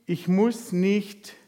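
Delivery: very slow, stressing "muss"; deliberate slow "ich muss nicht"; slow emphasis. Shown as a demonstration. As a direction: spell it out slowly, leaning on "muss". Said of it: "Klammer auf für Sie".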